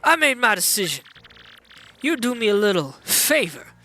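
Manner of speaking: lightly voiced gangster boss, accented; mob boss striking a deal. Boss offering a blimp ticket for a favor, mobster voice. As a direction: play a boss making an offer.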